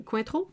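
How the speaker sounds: "Cointreau" said the French way; French pronunciation. Real, not acted. Checking the liqueur's name with a chat viewer, French pronunciation. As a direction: say "Cointreau" as a native French speaker, questioningly. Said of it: "I love your French pronunciation".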